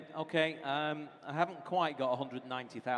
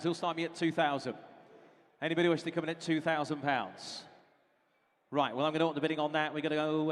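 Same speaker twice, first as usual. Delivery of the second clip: auctioneer. Acted. Auctioneer calling bids.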